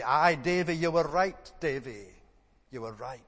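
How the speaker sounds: loud broad Scots, fading at the end; broad Scots accent. Retold or imitated. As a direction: call it out in a broad Dundee Scots voice. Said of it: "a broad Scots accent was heard to say".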